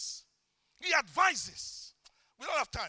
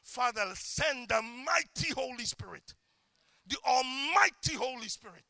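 prayer; 2 semitones lower than usual. Shown as a demonstration. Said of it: "That's how I like to refer to him".

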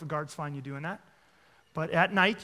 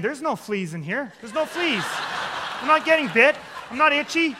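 higher, louder, laughing denial; mocking positive thinker; 7 semitones higher, 6 dB louder than usual. Preacher parodying positive thinkers, high laughing mock denial. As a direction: play a cheery believer insisting nothing bites. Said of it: "the positive thinkers would be saying".

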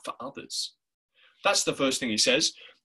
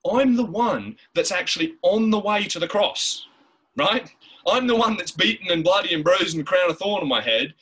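forceful preaching; 5 semitones higher, 5 dB louder than usual. Acted. Preacher voicing Jesus on cross.

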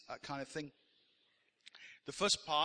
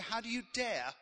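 mock offended; 4 dB louder than usual. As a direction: mimic scandalised churchgoers taking him to task. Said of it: "they get offended".

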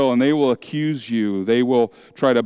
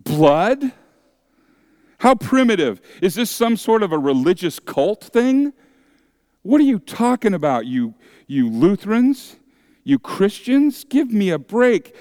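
scoffing skeptic; 5 semitones higher than usual. Retold or imitated. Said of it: "They say".

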